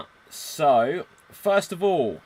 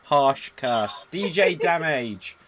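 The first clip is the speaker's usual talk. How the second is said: loud, higher "harsh curse"; booming verdict; exclaiming; 4 semitones higher, 9 dB louder, slower than usual. Real, not acted. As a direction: proclaim it grandly. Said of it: "GM reacts to ghost".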